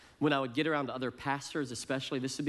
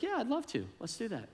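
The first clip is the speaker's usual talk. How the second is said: eager yes; 9 semitones higher, 3 dB quieter than usual. Retold or imitated. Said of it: "It's like".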